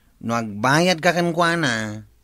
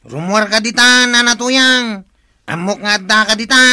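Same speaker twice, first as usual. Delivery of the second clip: louder, higher call to come out; 4 semitones higher, 6 dB louder than usual. Acted. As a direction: call her out of hiding. Collector calls her to come out.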